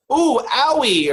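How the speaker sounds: high, drawn-out mock ouch; hammed-up childish whine of pain; baby talk. Imitating her pain sound in the movie, slow baby talk. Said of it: "just like baby talk".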